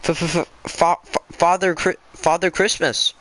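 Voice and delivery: high, frightened stutter on each F; a fox stammering before the queen; stammering in fear. A narrator's reading. Fox stammering the answer to the Witch Queen, terrified. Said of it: "stammered the fox".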